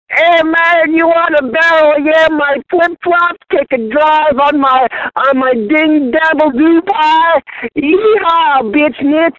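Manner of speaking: high, slow, drunk fake Australian accent; bad Australian accent. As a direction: ham up a terrible Australian accent. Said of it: "the worst Australian accent I've ever heard".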